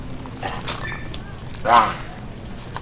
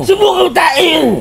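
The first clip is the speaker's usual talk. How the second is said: shout; 5 semitones higher than usual. Acted. Shouting a dare in argument.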